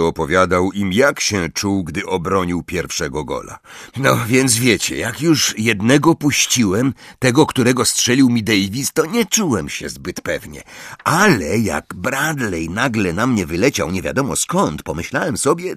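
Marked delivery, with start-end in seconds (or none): 4.0-15.7 put-on higher, eager voice of a proud teenage keeper; Ron boasting. Ron retelling his save to friends, boastful and eager. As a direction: relive the save with swagger and growing excitement.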